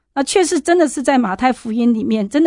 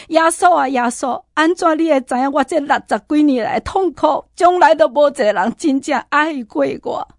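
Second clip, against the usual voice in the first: mother crying out; 4 semitones higher than usual. Retold or imitated. Mother kneeling, crying to Jesus.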